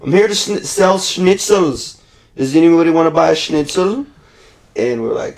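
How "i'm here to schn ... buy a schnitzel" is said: imitating the schnitzel man. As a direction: sell it like a cheerful old man at a stand. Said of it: "He's like".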